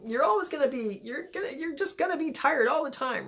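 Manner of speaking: mild, high-pitched heckling; nagging fuggler. Acted. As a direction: nag on like a discouraging inner voice. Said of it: "It's just saying".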